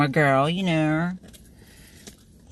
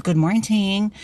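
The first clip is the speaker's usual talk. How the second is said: sing-song greeting, lightly; 4 semitones higher, slower than usual. Retold or imitated. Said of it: "just like how I tell you guys".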